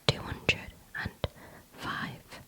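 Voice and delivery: slow whisper into the ear; whispered number. Shown as a demonstration. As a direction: whisper each word for the hearing test. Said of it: "I'm just gonna whisper some numbers in your ear".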